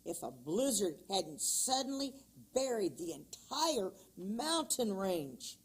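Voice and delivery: measured, expressive read-aloud of a tall tale; lively folk tale reading voice; storytelling narration. A narrator's reading. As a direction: tell it like a children's storybook narrator.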